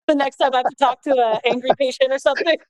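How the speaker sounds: high, laughing through the words; half-laughing aside. Real, not acted. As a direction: giggle the joke out. Joking about recording advice.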